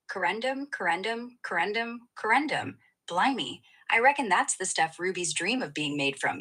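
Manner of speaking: playful put-on British accent; lightly British, as if showing off the accent. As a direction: repeat it in a cheeky British accent. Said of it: "sticking with the British vibe as requested".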